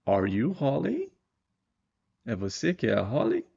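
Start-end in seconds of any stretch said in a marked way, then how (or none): 0.1-1.1 higher, slow question; slow model question. Shown as a demonstration. Teacher reading the example question slowly. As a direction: ask it slowly and clearly. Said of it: "Outra pergunta aqui embaixo".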